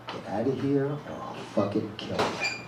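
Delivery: a mild mock snarl through clenched teeth. Threatening Ruthie to leave, through clenched teeth. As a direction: force the threat out between your teeth. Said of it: "With clenched teeth, I say".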